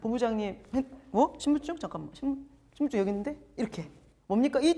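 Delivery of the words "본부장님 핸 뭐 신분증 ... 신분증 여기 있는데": scattered, fumbling for the ID card; a light sketch of a flustered boss searching her bag. Retold or imitated. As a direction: act confused and rushed as if lost. Herself flustered hunting her ID.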